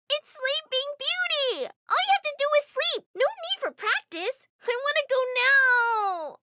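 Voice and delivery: put-on high, loud, slow child whine; bratty demanding girl. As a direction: demand it like a spoiled brat. Niece demands mall now.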